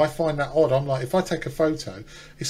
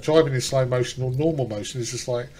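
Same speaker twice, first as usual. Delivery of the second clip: burp breaking into the words; talking while burping; 2 semitones lower than usual. Real, not acted. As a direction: speak through a burp. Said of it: "oh, sorry, I'm burping".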